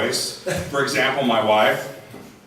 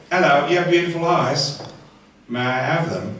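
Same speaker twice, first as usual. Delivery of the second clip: lightly put-on English accent; 2 semitones higher than usual. Shown as a demonstration. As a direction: charm them in a mock English accent. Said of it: "you can say anything with an English accent".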